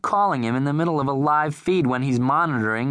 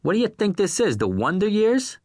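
raised, incredulous outburst; exasperated rant; 9 semitones higher than usual. A narrator's reading. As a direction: lose patience and let it rip. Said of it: "Irv's voice rose".

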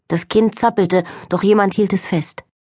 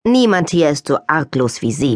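grumbling Bridget; 3 semitones lower than usual. Acted. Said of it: "brummte Bridget".

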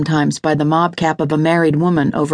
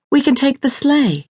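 high, eager woman's voice; pleading wife; 10 semitones higher than usual. Acted. Lydia proposes the sleigh to Reese, urging. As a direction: urge it in a much higher voice.

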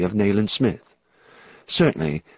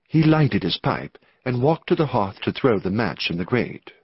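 ordinary delivery, nothing marked

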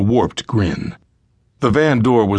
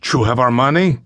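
put-on a question in Spanish-accented English, lifting on "money"; 2 semitones higher than usual. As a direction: ask "You have our money?" as a question with a Spanish accent. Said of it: "He addressed the fathers in accented English".

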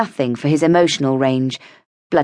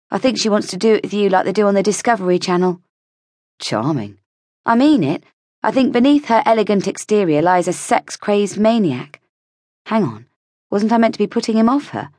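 higher, quick, conspiratorial chatter; heroine's gossipy voice; 5 semitones higher than usual. Acted. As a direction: dish the gossip lightly. Heroine gossiping about Lydia.

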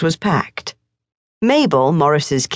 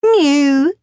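high mocking mew; mock the cat with scorn; scornful mew; 10 semitones higher, 3 dB louder than usual. A narrator's reading. Morris mocks the cat, high scornful mew. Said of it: "said Morris with scorn".

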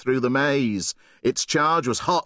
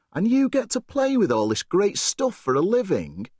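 high, wide-eyed question; amazed question; 9 semitones higher than usual. Acted. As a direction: ask in amazement. Boy amazed at dad's job.

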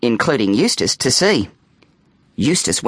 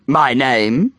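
mock-ominous announcement; dropping low. A narrator's reading. Boy introducing his vampire self, dropping low. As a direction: begin a grave introduction. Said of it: "dropping his voice down low".

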